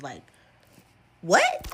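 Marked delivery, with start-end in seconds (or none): 1.2-1.7 very high, baffled mock yelp; really confused. Leon told to pack and leave, really confused. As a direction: squeak it out in total confusion. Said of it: "Leon is looking really confused".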